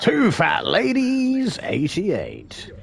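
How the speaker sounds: shouted slow bingo call; bingo caller. Pretend. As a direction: belt it out across the hall. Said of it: "Eyes down for Full House".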